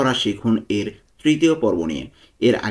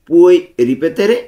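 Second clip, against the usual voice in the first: slow pronunciation model; 4 semitones higher, 7 dB louder, much slower than usual. Shown as a demonstration. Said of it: "উচ্চারণগুলো ভালো মতো খেয়াল করব".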